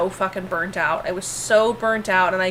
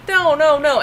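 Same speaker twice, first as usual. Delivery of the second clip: retold protest; 5 semitones higher, 4 dB louder than usual. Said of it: "I'm like".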